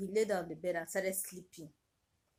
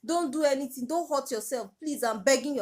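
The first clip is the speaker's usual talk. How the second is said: frantic begging; 5 semitones higher, 3 dB louder than usual. Retold or imitated. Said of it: "I was begging the two of them".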